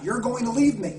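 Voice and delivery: put-on high, loud, desperate child's cry; child's scream of fear of being left. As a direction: scream it like an abandoned eight-year-old. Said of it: "And he screams out".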